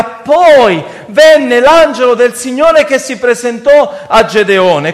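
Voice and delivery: emphatic, drawn-out verse reading; scripture quotation. Acted. Preacher repeating how Gideon's story begins, scripture quotation. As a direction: proclaim the verse slowly to the congregation. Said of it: "E inizia in questa maniera".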